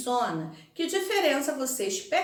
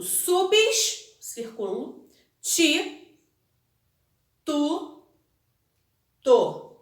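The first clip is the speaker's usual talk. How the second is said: word cut into separate syllables with long pauses; 2 semitones higher, much slower than usual. Shown as a demonstration. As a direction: dictate each syllable on its own. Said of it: "dúvida em como separar".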